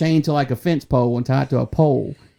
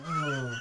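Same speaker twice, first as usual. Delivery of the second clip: imitated moan; 15 dB quieter than usual. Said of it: "looking at the camera going".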